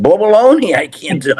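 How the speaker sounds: a high, loud blurt of "Baloney"; loud mock outburst. Retelling the chimp story, a hammed-up loud outburst. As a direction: blast "Baloney" like you're ready to swing. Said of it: "I didn't say it like that".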